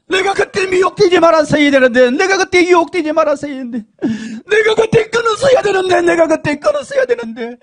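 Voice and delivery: high crying shout of regret; screaming regret. Retold or imitated. Damned woman screaming her regret in hell, crying. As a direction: wail that you should have quit. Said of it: "막 소리를 지르니까요".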